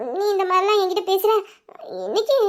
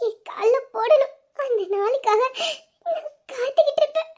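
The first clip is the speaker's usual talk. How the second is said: laughing through happy tears; choked up with joy, half laughing; teary joy. Acted. Wife thanking husband for gift, laughing through tears. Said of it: "எதுக்கு அழுகுற?".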